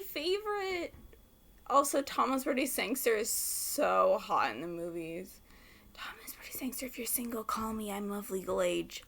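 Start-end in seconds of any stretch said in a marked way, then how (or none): 1.7-9.0 soft, breathy secret whisper. Real, not acted. Whispering a flirty aside to the actor.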